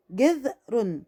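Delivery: جذر held briefly on a vowelless ذ; stop on the dhal. Shown as a demonstration. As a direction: stop on the ذ in جذر before the last syllable. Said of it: "أنا وقفت على الذال تبقى ذال سكون". (جذر مع الوقوف على الذال الساكنة)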